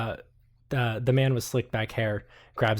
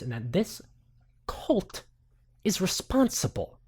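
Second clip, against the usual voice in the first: lightly voiced pompous journalist; 2 semitones higher than usual. Mason grandly claiming the blog runner knows about the vampire. NPC voice rises.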